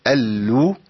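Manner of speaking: اللو with held lam and round u; doubled lam with damma. Shown as a demonstration. Sheikh modelling اللو for students. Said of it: "اللام المشددة بضم".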